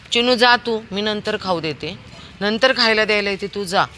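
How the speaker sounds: coaxing a stray dog to leave; coaxing shout. Real, not acted. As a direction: send the dog off kindly but loud.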